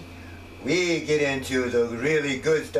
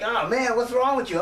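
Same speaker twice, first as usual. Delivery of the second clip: higher, puzzled mock question; puzzled people; 8 semitones higher than usual. People puzzled by his voice, higher mock surprise. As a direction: ask it like a confused bystander. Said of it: "people are like".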